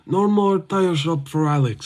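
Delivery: lightly voiced monotone fighter; mimicking the fighter's deadpan press-conference chirp; monotone Ankalaev. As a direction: drone it out with no lift in the pitch. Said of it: "he's always monotone".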